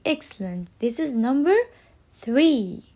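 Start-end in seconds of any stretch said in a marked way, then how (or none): 2.1-2.8 three said clearly with a falling tune; stressed three. Shown as a demonstration. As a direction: model three slowly and clearly. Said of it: "Repeat after me".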